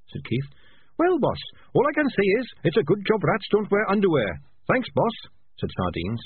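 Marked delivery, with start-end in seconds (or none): 1.0-5.2 high, chirpy rat voice; bright small rat, unbothered by danger; chirpy little rat. A narrator's reading. Rat stuck in a trap calls out, chirpy little voice.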